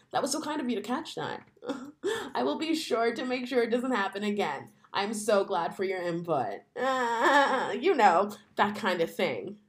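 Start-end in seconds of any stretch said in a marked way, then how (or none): 0.1-1.4 "That was so kind" lightly put-on sweet and polite; a hint of a syrupy office lady; white lady voice. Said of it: "in your white lady voice". 2.3-6.6 white lady voice. Acted. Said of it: "in your white lady voice".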